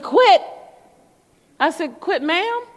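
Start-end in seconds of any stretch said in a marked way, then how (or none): 0.0-0.4 grandma can't believe her ears; shocked grandma. Retold or imitated. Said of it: "How am I supposed to say it?". 2.0-2.6 polite correction. Retold or imitated. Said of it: "How am I supposed to say it?".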